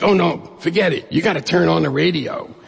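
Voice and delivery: lightly acted worked-up friend; hyperventilating friend. Friend brushing off his excuse about working, acted excited insistence. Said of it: "he's all hyperventilating".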